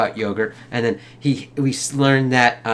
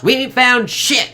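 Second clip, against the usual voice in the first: high, drawn-out exasperated yell; mock yell of frustration; imitated shout; 11 semitones higher, 4 dB louder than usual. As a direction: shout it across the desert, stretched out. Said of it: "and he shouts".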